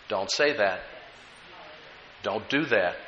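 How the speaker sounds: soft and low, nearly hushed; still small voice. Acted. Preacher voicing the Spirit's inner prompting, soft and low. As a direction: speak it gently like an inner voice. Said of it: "in that still, small voice".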